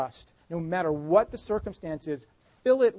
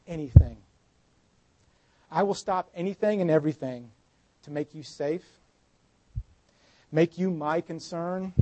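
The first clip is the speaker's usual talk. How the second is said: tender reassurance. Acted. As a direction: speak it gently like a loving father. Jesus voiced tenderly to daughter.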